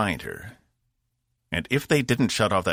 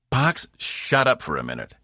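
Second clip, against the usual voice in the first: higher, irritated snap; snapped order; 7 semitones higher than usual. A narrator's reading. Cass silences chattering Box mid-question, irritated snap. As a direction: cut him off impatiently. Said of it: "Cass snapped".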